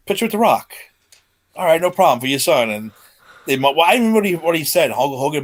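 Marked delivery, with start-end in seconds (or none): 0.1-2.7 imitating The Rock. Rock imitated, high excited.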